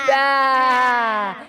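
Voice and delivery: 울먹이듯 떨며 외치는 양 울음; 양처럼 매애 하고 크게 떨어; sheep bleat. Acted. Sheep all go baa.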